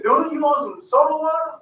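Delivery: high, loud imitation of relatives talking; acted family exchange. Brother retelling sisters' soda offer, acted exchange.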